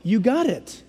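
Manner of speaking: soft, hushed okay okay; calming. Acted. Preacher voices God soothing the pleading sinner, soft and calm. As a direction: settle a panicked person gently. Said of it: "And God says".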